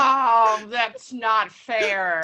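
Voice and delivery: loud then slow, heartstruck cry; mock wail. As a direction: ham up being touched, drawn out. Reacting to sweet child.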